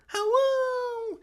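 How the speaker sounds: high shrill wolf howl. Acted. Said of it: "another wolf howl".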